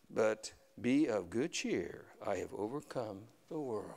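slow, measured Bible reading; solemn scripture reading. Acted. Preacher reading Jesus' words from John, slow and solemn. Reads scripture aloud slowly.

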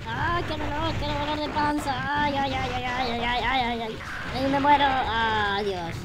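soft, drawn-out wail of pain; long whimpering string of ays; stomach-ache moaning. Pretend. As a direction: groan slowly, sinking as it goes on. Moans about a stomach ache.

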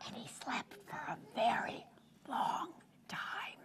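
soft sleepy whisper. Acted. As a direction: lull them like sleep.

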